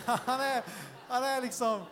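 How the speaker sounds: defiant affirmation. Acted. Dan affirms his love and identity, loud and defiant. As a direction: proclaim it firmly against the doubts.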